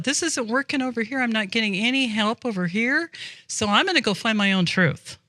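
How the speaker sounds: brush-off voice of a church drifter; mock seeker. Mocking churchgoers who go find their own truth, quick.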